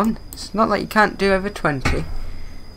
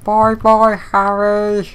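mock farewell; 5 semitones higher, 6 dB louder, much slower than usual. Taunting while speeding in game.

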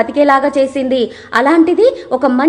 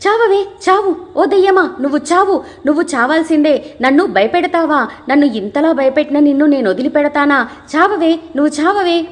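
hammed-up fake fury. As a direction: overplay the madwoman stabbing a ghost. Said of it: "బాగా కావాలని ... acting చేస్తూ". (నటిస్తూ పైస్థాయిలో అతిగా ఆవేశం)

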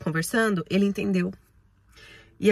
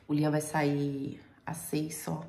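whisper; 3 semitones lower, 7 dB quieter, slower than usual. Real, not acted. Sad aside about son's hours.

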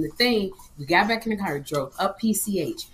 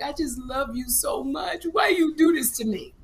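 pleading; 6 semitones higher than usual. Retold or imitated. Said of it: "he was like".

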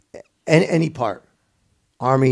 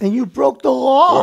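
teasing quip; 11 semitones higher than usual. Real, not acted. Host quips at caller.

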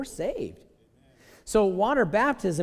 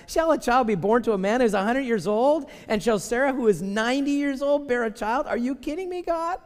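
rising higher and louder in disbelief; incredulous; 6 semitones higher, 4 dB louder than usual. Acted. Abraham questions God about a son, rising incredulous. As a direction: voice climbing to a high are you kidding. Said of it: "And he said in his heart".

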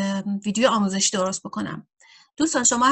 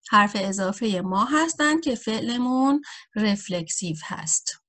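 whisper. Real, not acted. Teacher drops into whisper.

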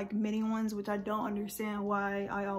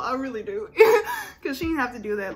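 laugh-crying; 6 dB louder, faster than usual. Real, not acted. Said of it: "I'm trying not to cry".

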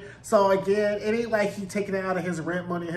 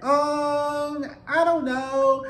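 mock evasive mumble; 9 semitones higher, 3 dB louder, much slower than usual. Albie dodging family's question.

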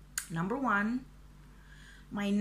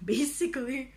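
higher, louder word through a laugh; 4 semitones higher, 4 dB louder than usual. Real, not acted. Vlogger summing up why she wants to lose weight, laughing. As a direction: laugh as you say it.

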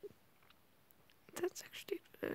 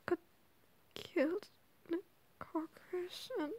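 whispering. Real, not acted. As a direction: whisper late at night. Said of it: "I'm sorry if I have to whisper".

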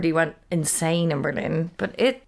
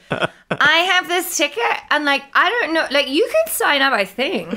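pub chat voice; 7 semitones higher than usual. Retold or imitated. Imitating pub chat about tickets.

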